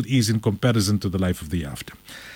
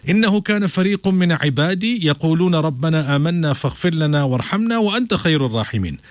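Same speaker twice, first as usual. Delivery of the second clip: fast flowing chanted Arabic verse; Quranic recitation; 3 semitones higher, much faster than usual. Acted. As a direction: chant it as tilawa before translating.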